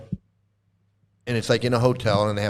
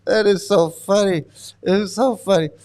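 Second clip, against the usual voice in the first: high-pitched, still shaken by real laughter; tickled, post-laughter; 6 semitones higher than usual. Real, not acted. Commentator recovering after the funny video, tickled. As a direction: say it while coming down from a laughing fit.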